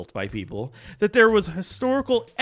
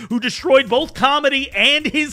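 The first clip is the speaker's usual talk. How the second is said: dramatic; 3 semitones higher, 6 dB louder than usual. Pretend. Dramatic doom speech about Rogan.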